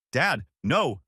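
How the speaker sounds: loud pleading no; alarmed cry. Acted. Son yelling at his father raising a tire iron, alarmed. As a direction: yell to stop him.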